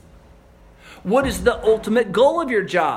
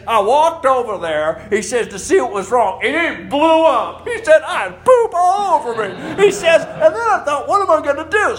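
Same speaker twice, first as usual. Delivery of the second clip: loud, high, laughing through the quote; can barely hold back laughter; mock shout of the septic guy, laughing; laughing retelling; 6 semitones higher, 7 dB louder than usual. Retelling funny story, laughing.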